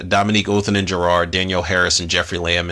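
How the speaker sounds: normal talking voice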